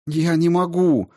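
crying out, pitch high; tearful cry. A narrator's reading. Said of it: "плакала Полина". (сквозь слёзы, высоким голосом)

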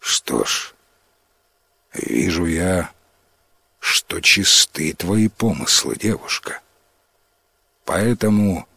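ancient spirit, low and unhurried. Acted. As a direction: speak like a wise old forest spirit. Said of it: "а потом и говорит". (низкий неторопливый голос лесного духа)

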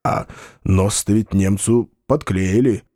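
plain reading voice

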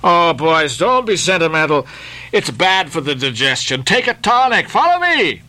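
put-on rally the boys with a grin in the voice; jolly sailor. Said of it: "First Nantucket sailor".

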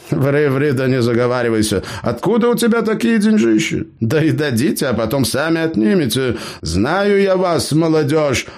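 put-on high-pitched cheeky old gnome. A narrator's reading. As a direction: play the crafty gnome, pitched well up. Gnome Eber scolds.

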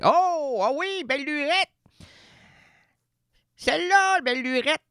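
high, amazed exclamation at the name; mock surprise. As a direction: act thrilled to recognise Belle Lurette. (surprise jouée, voix haute et ravie)

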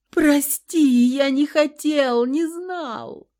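high, loud, slow sobbing plea; sobbing apology. A narrator's reading. Husband begging his wife's forgiveness, sobbing. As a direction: apologise as the sob breaks through. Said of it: "начав всхлипывать".

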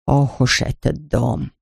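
put-on a wary old woman weighing her words; old shopkeeper. A narrator's reading. Shopkeeper answers the stranger girl, slow and wary.

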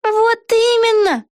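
high, slow triumphant exclamation; exclaiming. A narrator's reading. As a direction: Vega cries out delighted. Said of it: "воскликнула Вега". (высокий, медленный ликующий возглас)

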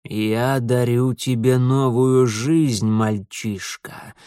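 put-on slow, menacing old stranger; ominous old man. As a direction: drag it out slowly, like a threat.

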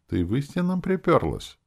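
can't believe she came like that; astonished. A narrator's reading. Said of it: "поразился я".

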